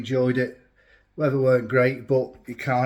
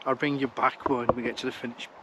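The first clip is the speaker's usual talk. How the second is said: hiccups. Real, not acted. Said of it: "Excuse me, got the hiccups".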